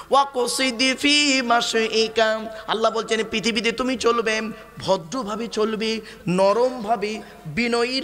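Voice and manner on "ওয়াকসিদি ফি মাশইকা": slow, drawn-out Quranic chant; Quran recitation. Shown as a demonstration. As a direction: recite the verse slowly and melodiously. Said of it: "শুনে নিন". (ধীরে কোরআন তেলাওয়াত)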